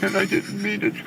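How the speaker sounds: high-pitched desperate apology; Blair Witch confession. Acted. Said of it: "It's so good. That was literally perfect to a T".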